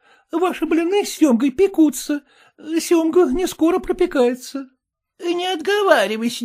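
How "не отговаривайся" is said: first reproach pitched high, rising; higher reproachful. Acted. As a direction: scold with a lift at the end. Mother-in-law repeats reproach. (упрёк повыше, с подъёмом)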